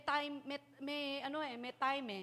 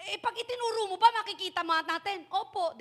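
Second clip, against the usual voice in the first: loud policeman; 8 semitones higher, 10 dB louder than usual. Acted. Policeman asks the lost child.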